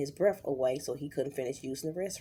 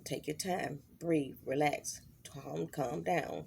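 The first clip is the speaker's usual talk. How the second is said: reassuring; slower than usual. Retold or imitated. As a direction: talk a panicking son down gently. Mother calming panicking son.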